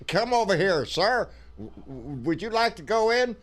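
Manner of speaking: high-pitched mock invitation; event staffer's invitation. Imagined staffer calling the bearded man over to go in, high-pitched invitation. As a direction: call someone over, pitched well up. Acts out being invited inside.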